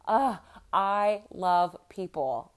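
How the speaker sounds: slow, drawn-out mocking sigh of love; teasing imitation of mom's catchphrase; mock mom gush. Son teasing mom, slow drawn-out mock gush. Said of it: "my son Caden goes".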